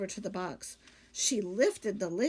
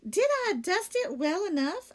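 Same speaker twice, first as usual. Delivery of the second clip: eager maid voice; 9 semitones higher, 4 dB louder than usual. Acted. Amelia Bedelia character voice.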